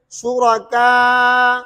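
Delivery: शुरका with the final आ held very long; tool with ishmam. Shown as a demonstration. Teacher showing ishmam at full length, long madd. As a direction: stretch the last vowel of शुरका fully, rounding the lips after. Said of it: "तूल है".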